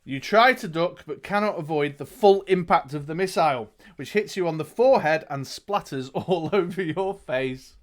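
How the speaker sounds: dramatic storyteller, key words punched; game master narrating the action; gamebook narration. A narrator's reading. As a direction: read it out like an adventure tale. Reads gamebook aloud to player.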